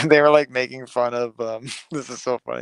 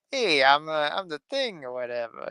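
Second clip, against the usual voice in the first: put-on Italian accent, soft and slow; 3 semitones higher, 5 dB quieter than usual. Describing to a friend how he sounds, in an Italian-accented voice. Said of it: "he sounds Italian".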